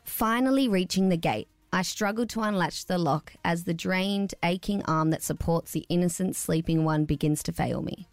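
reading a story aloud. Acted. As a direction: read it like a storybook. Reads a story aloud on air.

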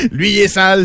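laughing through the words. Real, not acted. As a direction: giggle while saying it. Laughing repeating the joke.

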